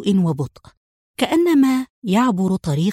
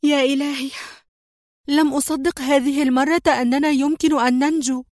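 high-pitched, breathless relief after the crash; exclaiming in relief; 8 semitones higher than usual. A narrator's reading. Mona after the car crash, exclaiming in high relief. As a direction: cry out, stunned to be alive. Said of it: "ثم هتفت منى".

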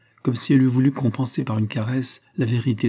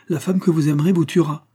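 raised-pitch, anxious warning; with terror; 6 semitones higher, 3 dB louder than usual. A narrator's reading. Pauline warns Raphaël about his future love, fearfully. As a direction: warn him with a restrained note of dread. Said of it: "dit-elle en me regardant avec terreur".

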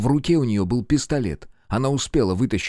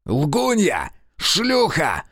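yelled insults; 7 semitones higher, much slower than usual. A narrator's reading. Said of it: "крикнул Альбрехт".

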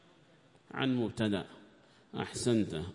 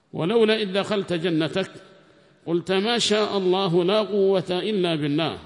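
raised, higher verse recited in full voice; Quran recitation; 6 semitones higher, 9 dB louder than usual. Acted. Teacher recites the verse to his students, in a raised chanting voice. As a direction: chant the verse out loud and high.

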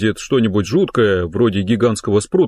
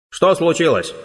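far-off voice through a hose; distant voice; 6 semitones higher than usual. Acted. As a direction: call from far away. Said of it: "раздался далёкий голос Болта".

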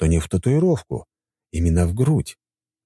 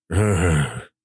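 slight moan. A narrator's reading. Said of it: "слегка простонал я".

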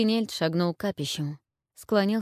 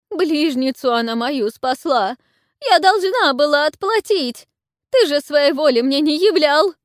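put-on high, loud wailing old crone, much higher; desperate howl; 9 semitones higher, 9 dB louder than usual. A narrator's reading. Old witch howls desperately at the warlord, wailing. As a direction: wail it in despair. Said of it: "Отчаянно взвыла старуха".

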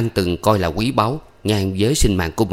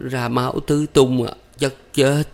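stammering groan; 5 semitones higher than usual. A narrator's reading. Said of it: "ú ớ đáp".

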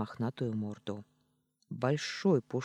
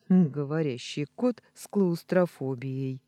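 1 amused snort; 4 dB louder than usual. Acted. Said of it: "хмыкнула я".

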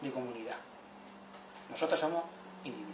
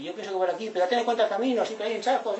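animated community advice; 6 semitones higher, 5 dB louder than usual. Retold or imitated. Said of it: "Para decir".

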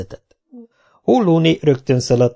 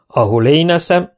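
a touch louder, higher; raised voice; 5 semitones higher, 4 dB louder than usual. Acted. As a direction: lift the voice like a proud warrior. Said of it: "emelte föl Kinizsi a hangját".

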